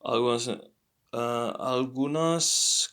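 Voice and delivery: algunas said slowly, final s clear; drawn-out algunas with a clear s ending; slow careful correction. Shown as a demonstration. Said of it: "because it's a student".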